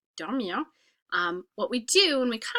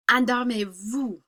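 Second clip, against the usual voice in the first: command; 5 dB louder, slower than usual. Shown as a demonstration. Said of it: "how would I tell everybody to fall asleep".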